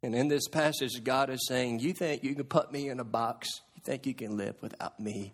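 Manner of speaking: soft, low and intimate; almost whispering the challenge; hushed preaching. Acted. Preacher closing with God's quiet challenge, hushed.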